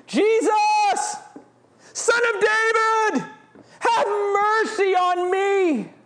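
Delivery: high, loud desperate cry; screamed plea. Shown as a demonstration. Blind beggar screaming to Jesus, high and loud. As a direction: scream it out to be heard. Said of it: "He screams it".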